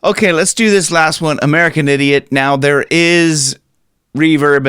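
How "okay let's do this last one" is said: normal talking voice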